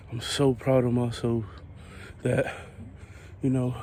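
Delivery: out of breath mid-walk; heavy breathing. Real, not acted. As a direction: talk through heavy breaths. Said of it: "sorry for the heavy breathing".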